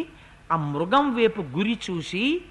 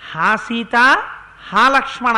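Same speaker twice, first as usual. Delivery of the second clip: louder mock anguished cry; cry in Rama's voice; 7 dB louder than usual. Mareecha cries out in Rama's voice, mock shout. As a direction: cry out the two names. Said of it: "తన కంఠంతో అరిచాడు".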